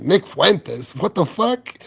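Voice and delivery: Nick Fuentes flat, then the swear jumps way up in mock shock; imitating stunned disbelief, rising high. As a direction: retell your outrage at hearing the name. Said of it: "I'm like".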